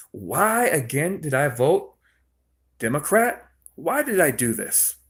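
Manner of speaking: mildly acted exasperated regret; sick and tired. Imagined Democrat voter asking themselves why, mildly fed up. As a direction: lightly mimic a fed-up voter questioning themselves. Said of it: "so sick and tired of it".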